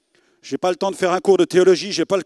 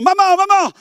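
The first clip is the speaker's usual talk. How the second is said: high, loud excited cries; excited shouting; 11 semitones higher, 5 dB louder than usual. Retold or imitated. Son bursting into the room shouting excitedly to his mother. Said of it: "j'arrive en disant".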